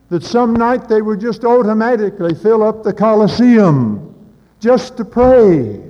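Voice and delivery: high and loud, pleading as it climbs; preaching at full force. Acted. Preaching climax.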